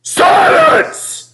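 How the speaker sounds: clipped, breathy bark for silence; sharp snapped command. A narrator's reading. Fat controller silences quarrelling engines with a snap. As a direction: cut the room off short. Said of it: "snapped the fat controller".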